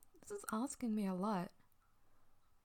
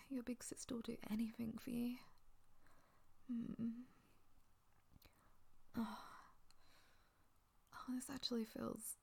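hushed, tender whisper; 6 dB quieter than usual. Acted. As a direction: whisper it softly and close. Tender roleplay, whispered throughout.

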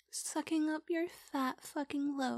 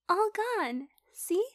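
proud; 4 semitones higher, 7 dB louder than usual. Acted. Proud after swallowing.

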